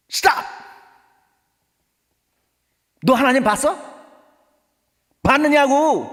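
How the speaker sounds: explosive, high-pitched angry shout; angry father. Acted. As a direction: cut your child off with a furious yell. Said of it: "어, 막 화를, 막 화를 내".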